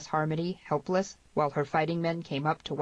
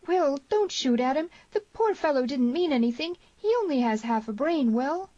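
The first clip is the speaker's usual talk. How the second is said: high, loud, frantic pleading; screamed plea; 10 semitones higher, 4 dB louder than usual. A narrator's reading. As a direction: plead frantically for his life. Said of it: "she screamed".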